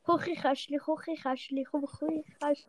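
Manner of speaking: repeats Küchenschrank as Swiss German Chuchichäschtli, some slowly; Küchenschrank practised over as Swiss German Chuchichäschtli; Swiss German tries. Shown as a demonstration. Practising a Swiss German word for his co-host. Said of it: "sag mal Küchenschrank auf Schweizerdeutsch".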